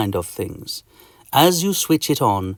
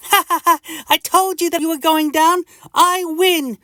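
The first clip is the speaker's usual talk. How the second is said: tiny mite laughing in triumph; gloating laugh. Acted. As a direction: crow over the fallen giant. Mister Itch gloats over victim.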